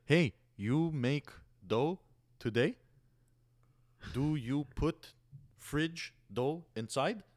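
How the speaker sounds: very slow, high, word-by-word broken English; talking down. Retold or imitated. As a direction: spell it out as if to someone who barely understands. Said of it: "spoke to him like he was".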